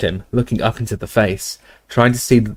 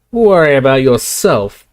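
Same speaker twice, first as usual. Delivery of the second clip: louder threat with a high push; menacing Death Eater; 4 semitones higher, 5 dB louder than usual. Acted. Death Eater warning the barman, louder. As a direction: snap a warning.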